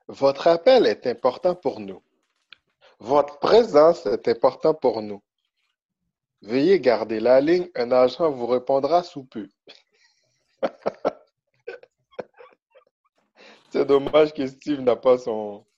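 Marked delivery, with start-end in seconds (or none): 0.1-9.5 mock recorded hold message; customer service voice. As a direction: read it like a phone line recording.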